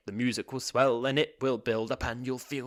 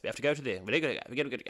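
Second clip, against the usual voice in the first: soldier talk; 2 semitones higher, much faster than usual. Retold or imitated. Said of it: "they all talk like this".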